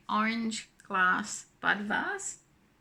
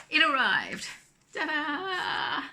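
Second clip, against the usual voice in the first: excited; 6 semitones higher, 4 dB louder, slower than usual. Real, not acted. Showing new book.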